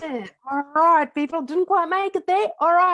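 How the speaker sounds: high, loud comic defensiveness; playfully indignant; mock protest. Real, not acted. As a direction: protest the teasing, voice pitched right up. Teased about missing her Hollywood aim.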